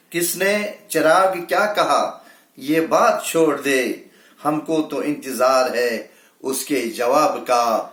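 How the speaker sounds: measured Urdu verse delivery; mushaira-style recital; poetry recitation. Acted. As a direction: recite it as a ghazal line. Recites closing couplet and opening.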